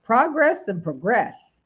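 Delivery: "Progress and progress" slowly, first PRO-gress then pro-GRESS; slow contrast of "Progress and progress", shifting the stress to the second syllable; noun then verb. Shown as a demonstration. Host slowly contrasts the two words for viewers.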